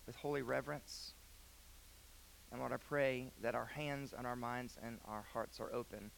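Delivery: soft, hushed pastoral prayer; reverent, subdued address to God. Real, not acted.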